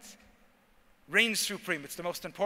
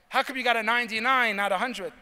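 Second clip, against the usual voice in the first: scolding parent; 3 semitones higher, 6 dB louder than usual. Retold or imitated.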